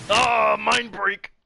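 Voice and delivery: high, loud, drawn-out cry; mind break. Pretend. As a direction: wail like your mind is snapping. Dramatic mental breakdown cry.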